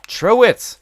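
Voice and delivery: sudden high, loud command; urgent yell. Real, not acted. Urgent yell during play.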